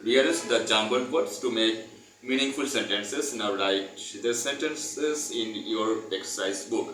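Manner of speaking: very slow, word-by-word textbook reading; reading aloud. Acted. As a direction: dictate it slowly so students can follow. Reads textbook instruction aloud.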